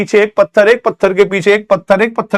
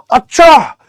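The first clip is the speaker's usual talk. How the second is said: mild mock anger; 6 semitones higher than usual. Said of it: "electron को गुस्सा आ गया".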